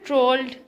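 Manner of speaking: "Trolled" said loudly as one isolated syllable; "Trolled" as a loud, separate stressed syllable; stressed syllable alone. Shown as a demonstration. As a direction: punch out "Trolled" on its own. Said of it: "stress is on the last syllable".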